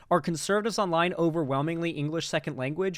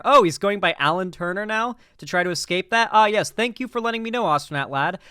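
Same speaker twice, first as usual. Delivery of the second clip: sarcastic thanks; 5 semitones higher, 4 dB louder than usual. Retold or imitated. Sarcastic reply to a commenter.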